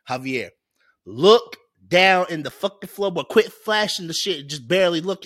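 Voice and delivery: dad snapping at his son over the phone light; angry dad. Retold or imitated. Angry father yelling at son in car. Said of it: "His dad gets pissed".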